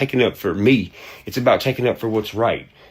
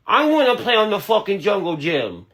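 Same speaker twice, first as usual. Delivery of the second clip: put-on much higher, whiny little kid voice; mocking childish voice; 10 semitones higher than usual. Mocking the man's accent as a whiny kid on the playground. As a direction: ham up a goofy kid begging to play. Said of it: "that's what you sound like".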